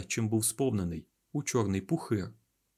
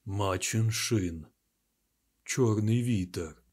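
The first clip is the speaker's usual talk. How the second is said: alarmed cry; 2 semitones lower, slower than usual. A narrator's reading. Loial crying out in terror at the black wind. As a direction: drag out the warning in dread. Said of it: "А Лоял скрикнув".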